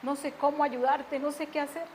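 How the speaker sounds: soft, subdued retold plea; quiet, contrite tone; calmed-down apology. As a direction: gently ask a daughter's forgiveness. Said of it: "calmé mi ira y le dije".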